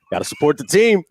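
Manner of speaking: slightly hammed-up team slogan; imitating a sitcom sports fan; acted fan declaration. First take of Kramer quote.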